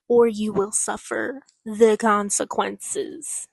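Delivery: emphatic warning, slowing heavily on the last words; dramatic book reading. Acted. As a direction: deliver the dire warning, drawing out the ending.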